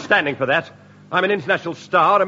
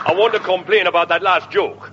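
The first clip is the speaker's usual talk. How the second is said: a raised, odd comic voice; silly put-on voice; 3 semitones higher than usual. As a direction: fake voice that is not Scottish. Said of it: "why are you talking like that?".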